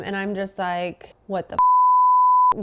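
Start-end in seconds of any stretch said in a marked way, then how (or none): 1.3-2.6 much higher, slow outraged cry; retold yell. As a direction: let the frustration burst out on the first word. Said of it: "I start yelling at him".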